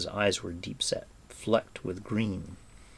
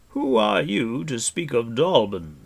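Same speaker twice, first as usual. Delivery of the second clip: loud, higher-pitched challenge; demanding; 6 semitones higher, 8 dB louder than usual. A narrator's reading. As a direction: challenge their right to speak. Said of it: "he demanded".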